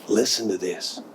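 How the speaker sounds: ordinary delivery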